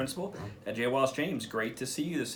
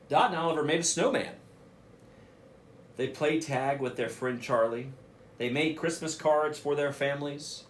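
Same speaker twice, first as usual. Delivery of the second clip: put-on lively read-aloud voice for young listeners; reading to children. Principal reading a picture book to students, lively storytelling voice.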